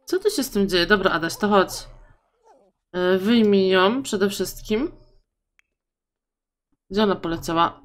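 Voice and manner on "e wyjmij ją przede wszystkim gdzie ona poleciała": ordinary talk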